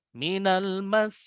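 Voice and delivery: minal mas slow, lifted on mas; stressed doubling. Shown as a demonstration. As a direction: lean on mas and raise it.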